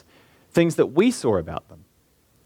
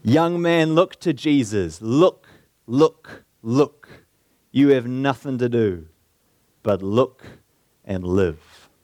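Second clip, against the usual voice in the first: shouted appeal; slower than usual. Retold or imitated. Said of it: "he shouted as only a primitive Methodist could do".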